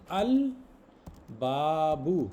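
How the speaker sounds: अल बाबू said slowly with a clear L; lam pronounced. Shown as a demonstration. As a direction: sound the L in अल, then बाबू. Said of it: "इसमें देखिए लाम pronounce हो रहा है". (अल बाबू, लाम साफ़ पढ़ते हुए)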